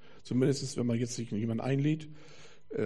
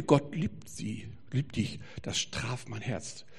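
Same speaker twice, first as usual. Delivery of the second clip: moved, slow quote; 2 semitones lower, 5 dB quieter, slower than usual. Retold or imitated. Retold man moved by the words.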